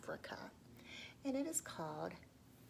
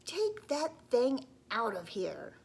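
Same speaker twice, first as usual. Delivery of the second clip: grumpy grown-ups; 5 semitones higher, 9 dB louder, slower than usual. Acted. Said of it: "the grown-ups would say".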